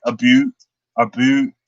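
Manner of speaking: Canadian "about" said as "a boot"; stereotyped Canadian vowel demo; Canadian accent. Shown as a demonstration. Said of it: "American and Canadian can be pretty similar".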